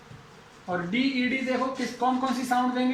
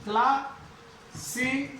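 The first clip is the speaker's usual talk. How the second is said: क्लासेज drawn out very slowly; slow demo; much slower than usual. Shown as a demonstration. Teacher slowly models क्लासेज for the students. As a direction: stretch क्लासेज out, klasiz. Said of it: "इसका कैसे बन जाएगा".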